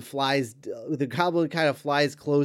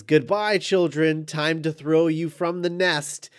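Goblin taunt; 4 semitones higher, 4 dB louder than usual. Retold or imitated. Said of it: "and says".

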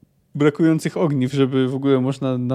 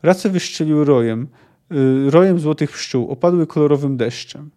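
measured audiobook narration; story narration. A narrator's reading. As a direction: read the battle scene as a storyteller. Reads the novel aloud. (narracja powieści)

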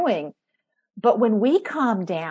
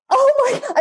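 laughing surprise; 14 semitones higher, 4 dB louder than usual. Retold or imitated. Mother surprised by toddler's ploy.

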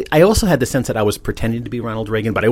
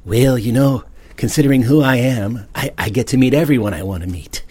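Ronald Reagan voice; 3 semitones higher than usual. Retold or imitated. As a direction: talk like an old president. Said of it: "And I was talking like that in a dream".

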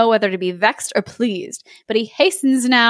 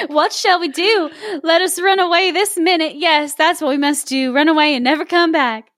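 pleading princess; 5 semitones higher than usual. Acted. Princess frantically urges running away.

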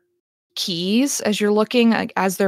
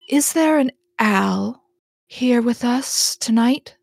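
slow, slightly raised medium's question; slightly indulgent; 4 semitones higher, slower than usual. Acted. Medium asking the spirits for Al, slow and mildly indulgent. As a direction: humour the guest with slow, measured words. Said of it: "smiles slightly indulgently and says".

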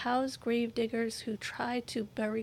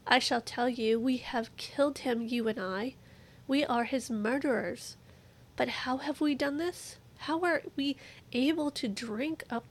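raised, urgent reading of the madman; dramatic reading. A narrator's reading. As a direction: read it as an impassioned plea. Madman's speech read aloud.

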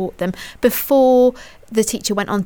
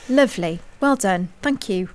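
teacher voice. Pretend. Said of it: "that was my teacher voice there".

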